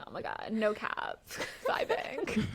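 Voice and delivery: giggling through an imitation of reality-show slang; mock the dating show cast while laughing; laughing parody of reality TV talk; laughing mock quote. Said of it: "because they're like".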